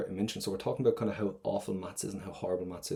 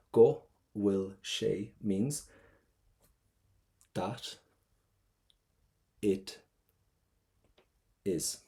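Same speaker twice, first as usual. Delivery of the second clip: slow drawn-out model; much slower than usual. Shown as a demonstration. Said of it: "What's the difference between go will".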